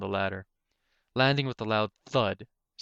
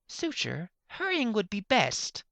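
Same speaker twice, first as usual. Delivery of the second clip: higher, slow, strained urging; urgent professor; 12 semitones higher, slower than usual. Acted. Slipping unicorn urges Suture to hurry, high and strained. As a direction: keep it polite but panicky, slow.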